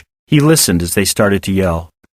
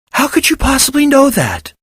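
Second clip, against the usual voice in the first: incredulous. A narrator's reading. Incredulous question.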